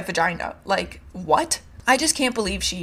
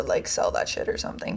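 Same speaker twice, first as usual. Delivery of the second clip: whispered aside; 6 dB quieter than usual. Real, not acted. Snide aside about the doctor.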